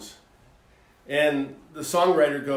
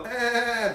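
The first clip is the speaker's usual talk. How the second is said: mock sheep bleat; 5 semitones higher, 3 dB quieter than usual. Shown as a demonstration. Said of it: "I don't know how to do a sheep".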